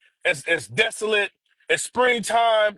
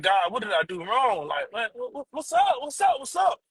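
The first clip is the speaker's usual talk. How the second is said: bewildered pleading; 5 semitones higher, 4 dB quieter than usual. Retold or imitated. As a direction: voice jumps high in confusion. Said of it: "I was just like".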